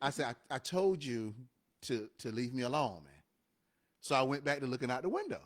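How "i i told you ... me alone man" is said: lower, firmer second warning. Retold or imitated. Boy on the bus warning the bully more firmly this time. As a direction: lay down the line this time. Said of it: "but this time".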